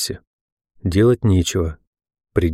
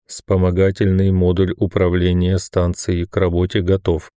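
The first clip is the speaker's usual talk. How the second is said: impassive metallic voice. Acted. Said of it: "бесстрастно ответил металлический голос".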